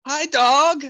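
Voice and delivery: high, sing-song voice for a dog; childish baby talk. Retold or imitated. Narrator nervously baby-talking a growling basset hound, high childish voice. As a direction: coo at the dog like it's a toddler. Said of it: "a childish conversation with this giant basset hound".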